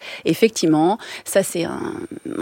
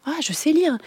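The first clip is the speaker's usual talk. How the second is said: put-on proud child; 7 semitones higher than usual. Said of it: "c'est gratifiant, il a quatre ans".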